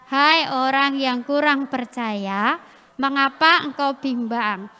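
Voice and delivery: slow, measured recital; memory verse recitation. Acted. Preacher recites the memory verse with children, slow recitation. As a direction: pace each phrase for a group to follow.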